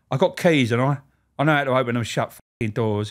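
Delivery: defiant boss. Retold or imitated. Boss's defiant retort retold.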